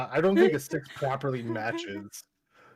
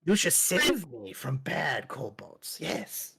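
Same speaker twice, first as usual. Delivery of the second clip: creature. Acted. DM plays kobold Copper.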